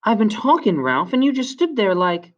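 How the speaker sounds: high-pitched indignant scolding. A narrator's reading. Piggy scolds Ralph for standing there, indignant. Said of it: "Piggy was indignant".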